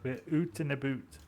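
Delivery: Canadian "oot in a boot", oo vowels; jokey Canadian accent. Retold or imitated. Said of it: "the one with the Canadian accent".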